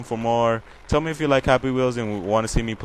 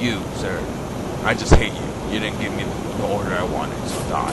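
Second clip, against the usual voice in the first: sentence the victim with mock menace; a hint of a horror villain; villain game voice. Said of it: "still talking like this".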